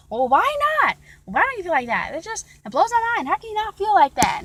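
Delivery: high, loud, mock-distraught protest; emotional outburst. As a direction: imitate someone getting worked up in disbelief. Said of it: "she was getting all emotional".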